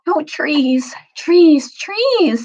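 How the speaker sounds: rising calls. Acted. Lucy calling longingly to the sleeping trees, rising pleas. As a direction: call out to the trees, climbing each time. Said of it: "said Lucy".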